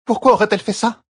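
can't believe it; astonished. A narrator's reading. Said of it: "s'étonna Alliandre". (étonnement, question incrédule)

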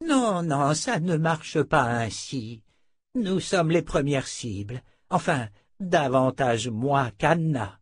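put-on slow, effortful old man; weary old wizard. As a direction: correct them slowly, short of strength. (vieux sorcier las, parlant lentement)

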